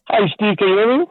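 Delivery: radio show caller. Real, not acted. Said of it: "your voice is somewhat distorting".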